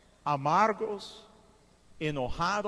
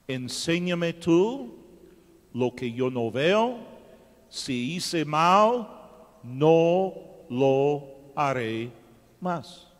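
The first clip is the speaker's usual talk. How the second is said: slow pleading prayer; 3 semitones lower, 4 dB louder, much slower than usual. Acted. Drawn-out repentant prayer.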